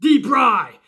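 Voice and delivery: lightly voiced baffled crowd; incredulous what the fuck. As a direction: drag it out in disbelief. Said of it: "and everyone's like".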